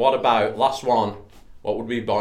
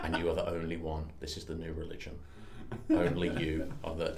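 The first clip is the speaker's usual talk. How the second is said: low, hushed proclamation; solemn cult leader; 4 semitones lower, 6 dB quieter than usual. Acted. Bean telling John of the new religion, mock-solemn and low. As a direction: found a religion in a soft, lowered voice. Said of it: "I've become a cult leader".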